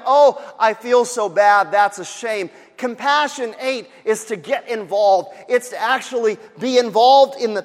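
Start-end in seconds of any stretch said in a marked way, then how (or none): 0.1-2.5 mock pity. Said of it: "not just about a feeling of".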